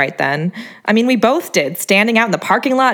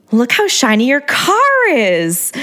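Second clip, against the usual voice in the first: put-on high, slow baby talk; 5 semitones higher, slower than usual. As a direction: coo at it like to a baby. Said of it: "like I was talking to a baby".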